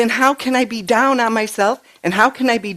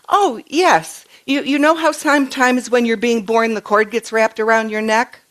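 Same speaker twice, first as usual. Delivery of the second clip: lightly voiced eager little girl, much higher at the start; three-year-old granddaughter; 4 semitones higher than usual. Granddaughter explaining birth to Nana, imitated child voice. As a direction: play the child explaining with bright certainty. Retelling granddaughter's words to her.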